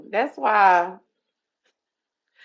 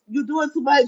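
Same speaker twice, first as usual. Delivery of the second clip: stretched shrieking scold; 6 semitones higher, 4 dB louder than usual. Retold or imitated. Exasperated scolding, stretched take.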